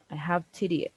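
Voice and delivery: "have" given the main weight; stress on HAVE. Shown as a demonstration. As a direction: lean on "have" to correct. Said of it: "we often stress the auxiliary, like say it louder".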